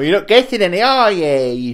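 high, loud playground taunt. Pretend. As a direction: sing it up high to mock. Taunting in a banter quarrel.

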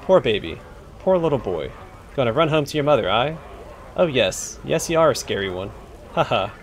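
a lightly voiced rough cockney thug taunting; cockney bully. Bully jeering at the adventurer, light rough cockney voice. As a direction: sneer it like a street tough.

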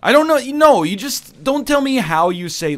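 shouted, high mock rant; mock angry shout. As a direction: bark it out in jest. Mock bossy radio rant.

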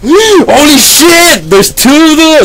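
startled gasping exclaim; panicking gamer. Real, not acted. Jump scare in horror game.

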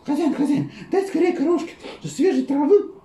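high hen voice with laughter; hen calling master. Acted. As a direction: plead like a flustered hen.

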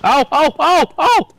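pained yelps from a leg cramp. Real, not acted. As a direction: cry out from a sudden leg cramp. Sudden pained cries.

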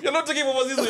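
laughing through the words. Real, not acted. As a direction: laugh while saying it. Laughing repeat.

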